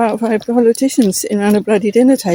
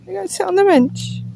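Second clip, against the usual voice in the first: higher, insistent repeat; higher telling-off repeat; repeated instruction; 11 semitones higher than usual. Real, not acted. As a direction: say it again, firmer and higher.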